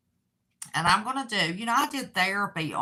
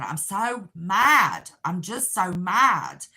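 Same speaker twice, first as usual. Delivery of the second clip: slow, louder cry of being mad; retold angry cry; 5 dB louder, slower than usual. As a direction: relive the outburst, dragging the words. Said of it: "I was just screaming".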